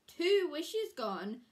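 loud, slow, each word weighed; slow emphatic lament. A narrator's reading. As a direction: land the loss heavily. Narrator stresses the loss.

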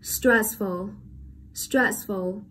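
stressful with STRESS strong, ful light; careful model of stressful, weight up front; stress on first syllable. Shown as a demonstration. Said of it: "rơi vào âm tiết đầu tiên".

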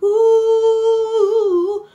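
drawn-out menacing hum, high; mock gangster hum. Imitating thugs swaggering up with umbrellas, mock hum. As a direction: hum like a strutting thug. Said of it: "약간 그런 느낌으로".

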